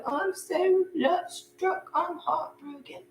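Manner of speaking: slow, high, hammed-up lovesick moan; mock heartbroken. Sick ex in bed, mock lovesick whining. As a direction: whimper it like a sick puppy. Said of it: "and just like".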